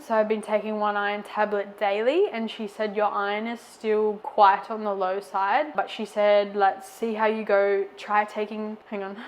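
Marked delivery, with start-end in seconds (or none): 2.3-8.8 out of breath; short of breath, heartburn. Real, not acted. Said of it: "I just got a weird heartburn and I'm out of breath". 8.9-9.2 breathless pause; catching breath. Real, not acted. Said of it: "I'm out of breath".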